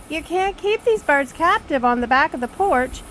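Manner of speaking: imitating an exasperated husband yelling at his wife. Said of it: "He's yelling at me the whole time".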